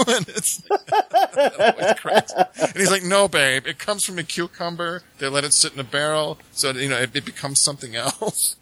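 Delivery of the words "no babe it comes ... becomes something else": Sammy Davis Junior. Retold or imitated. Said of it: "I can't really do Sammy, but I was trying".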